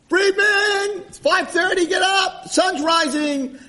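very high, loud calling out; excited sing-out yell, last words drawn out; wake-up holler. Acted. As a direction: shout him awake from across the room. Waking roommate at dawn, calling out.

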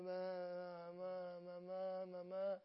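flat, slow droning ma, ma; lethargic zombie. Retold or imitated. Mocking a sluggish guy with no energy, zombie drone. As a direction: drone like a half-asleep zombie. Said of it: "Like the lethargy guys".

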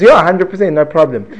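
loud, high, emphatic yes; eager agreement. Acted. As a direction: agree at once, comically eager. Trapped girl instantly agrees to marry.

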